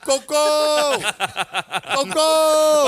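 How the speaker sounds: yelled name. Retold or imitated. Showing what was yelled to a friend, yelling. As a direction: yell it out high, stretching the ending. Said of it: "that was what I was yelling to you".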